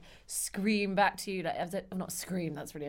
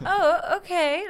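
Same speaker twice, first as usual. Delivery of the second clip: laughing; 11 semitones higher, 8 dB louder, slower than usual. Retold or imitated. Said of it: "You know, like a".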